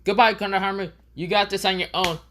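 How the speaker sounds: high-pitched toad saying goodbye. Acted. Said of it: "the toad says".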